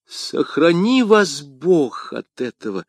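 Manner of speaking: high, drawn-out cry of alarm; alarmed exclamation. A narrator's reading. Young woman warning d'Artagnan off her secrets, alarmed exclamation. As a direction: exclaim it slowly, pitch lifted in worry. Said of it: "воскликнула молодая женщина".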